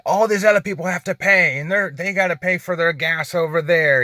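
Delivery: mildly mock a man going off about paying; retold angry rant. Driver quoting the man pointing at gas pumps, retold angry rant. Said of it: "He just was going off on me".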